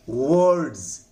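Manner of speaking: "वर्ड्स" said deliberately, R silent; model pronunciation. Shown as a demonstration. Teacher models a listed word for students, careful pronunciation of "वर्ड्स". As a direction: show how "वर्ड्स" sounds with a silent R and z ending. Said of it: "जिसकी pronunciation मैंने नीचे लिख रखा".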